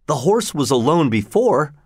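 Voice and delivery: mild excited exclamation with "horse" stressed; eager cry. Acted. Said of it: "I cried".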